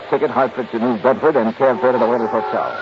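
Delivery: measured first-person radio narration; hard-boiled detective narrating his case; story narration. A narrator's reading. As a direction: tell it like a case report. Johnny narrates his expense report.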